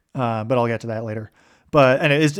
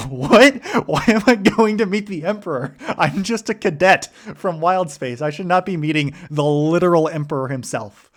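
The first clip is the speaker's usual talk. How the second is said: panicked disbelief; 5 semitones higher than usual. Retold or imitated. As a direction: imitate the terrified cadet. Eli finds out he meets the Emperor.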